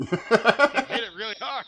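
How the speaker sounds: slow, loud mock-solemn line; deadpan. Joke answer to repeated question.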